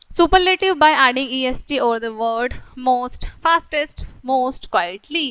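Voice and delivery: slow, deliberate read-aloud of the example sentences; slow textbook reading. Acted. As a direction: read each word out slowly for the class. Reads rule from textbook.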